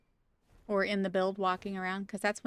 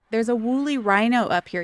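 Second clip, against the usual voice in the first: louder, excited announcement; excited find; 2 semitones higher, 7 dB louder than usual. Real, not acted. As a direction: call out the discovery to chat. Excited discovery of rhino.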